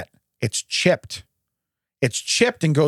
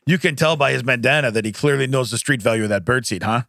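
parrot voice; 2 semitones lower than usual. Pretend. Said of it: "in the parrot voice".

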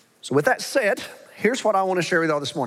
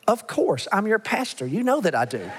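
higher-pitched tongue-in-cheek boast; mock self-assurance; 3 semitones higher than usual. Pastor joking to his congregation about himself, mock self-assured. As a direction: play at being the perfect pastor, dropping at the end.

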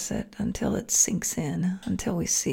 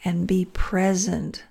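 guided meditation. Acted.

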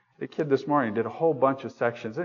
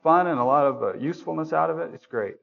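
genuinely glad; 4 semitones higher than usual. Pretend. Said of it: "Love would say".

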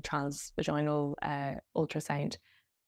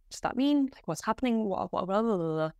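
higher, frantic questions, mildly voiced panic; panicked crying questions; 5 semitones higher than usual. Asking the sonographer what is happening, in a mild retold panic. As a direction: replay the panic lightly, words tumbling out. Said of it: "started bawling, crying".

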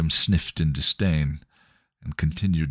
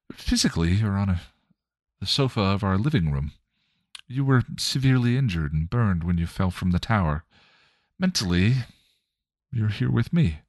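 lightly voiced kind mother, a bit higher; Joyce, gentle mother; 3 semitones higher than usual. Joyce's spirit reassuring Spike, lightly voiced gentle mother.

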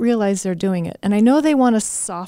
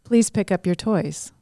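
polite please. Shown as a demonstration. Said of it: "It's very different".

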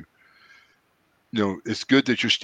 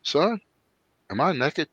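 serious Seth; 5 semitones higher, 6 dB quieter than usual. Retold or imitated. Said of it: "He looks at me real serious".

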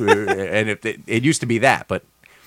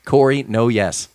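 announcer voice; 2 semitones higher than usual. Acted. Announcing the guest.

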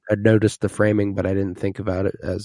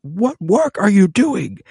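much higher, slow, louder snotty-king voice; mocking Joffrey; 13 semitones higher, 5 dB louder, slower than usual. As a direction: drag it out in a whiny high pitch. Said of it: "And he's like".

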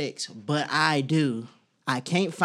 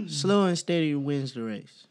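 slow. Acted.

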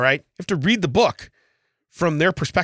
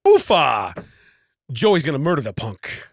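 Italian dialect; 2 semitones lower, slower than usual. Pretend. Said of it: "reading it, like, with an Italian dialect".

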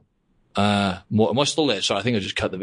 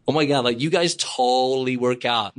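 lightly voiced fan at the pool; mock gushing tourist; 3 semitones higher than usual. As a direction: imitate an admiring stranger by the pool. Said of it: "that was in Vegas, by the pool".

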